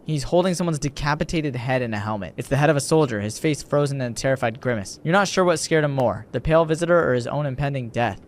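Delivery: measured, understated reading; story narration. A narrator's reading. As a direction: narrate a grim scene evenly.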